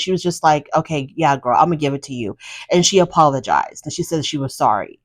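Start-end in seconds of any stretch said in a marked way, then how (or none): 0.8-2.4 lower, softer retold giving-in; exhausted. Imitating Mina giving in to the apology demand, exhausted. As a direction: imitate someone too tired to argue, voice sinking. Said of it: "so exhausted and tired".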